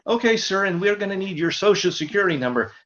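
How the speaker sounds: high, polite office clerk; receptionist voice. Retold or imitated. Front office clerk asking caller for number, mildly voiced.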